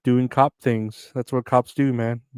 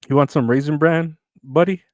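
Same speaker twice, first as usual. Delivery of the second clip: cheery salesman; 4 semitones higher, 4 dB louder than usual. Pretend. Voicing the cereal offering.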